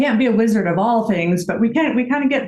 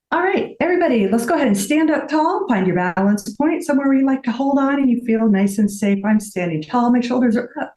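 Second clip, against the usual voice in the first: fitness instructor cueing; 3 semitones higher than usual. Shown as a demonstration. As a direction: lead the class, brisk and cheerful. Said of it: "I kinda sound like an auctioneer".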